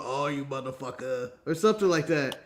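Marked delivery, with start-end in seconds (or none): 0.0-1.3 low, soft muttered curse; mock Booker T. Imitating Booker T cursing at Mike Rowe. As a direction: mutter it under your breath like Booker T. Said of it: "Booker T going".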